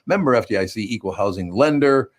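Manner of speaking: quick, brisk ad read; fast radio sponsor tag. Acted. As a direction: rattle off the sponsor line.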